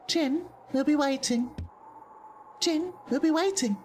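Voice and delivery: very high, stilted Jin voice; exaggerated creature voice. Jin promises to be waiting, exaggerated high voice. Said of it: "I need to be less exaggeratory with it".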